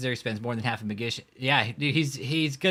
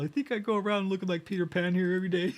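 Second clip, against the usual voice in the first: high lightly voiced movie sensei; sensei impression; 7 semitones higher, faster than usual. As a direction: toss it off like a cocky sensei. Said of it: "He's all".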